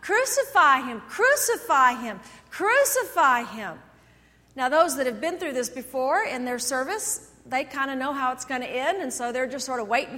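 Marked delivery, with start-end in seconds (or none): 0.0-3.8 mild mock crowd shout, louder and slower. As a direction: chant it like a crowd calling for death. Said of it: "start shouting".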